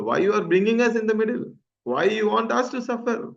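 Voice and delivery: retold protest. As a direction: plead with the master on the family's behalf. Atulai pleads with the master.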